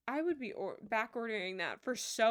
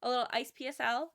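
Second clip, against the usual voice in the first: retold excitement; 2 semitones higher, 4 dB louder than usual. Streamer recalling plans to celebrate sweater weather, retold excitement. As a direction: re-enact your eager little idea. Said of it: "I was excited 'cause I was like".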